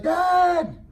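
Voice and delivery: put-on high, loud yell of a kid; a stubborn child shouting back. Son refusing, yelling back.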